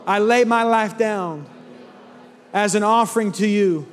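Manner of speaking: slow, measured prayer in short phrases; earnest prayer swelling, then settling slowly; led prayer. Real, not acted. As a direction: lead the congregation line by line, leaving room to repeat. Leads congregation in prayer.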